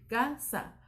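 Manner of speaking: "Casa" split as ca - sa; dividido en sílabas. Shown as a demonstration. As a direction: say "Casa" syllable by syllable, ca, sa. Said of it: "¿Se divide aparte?". ("Casa" separado en ca - sa)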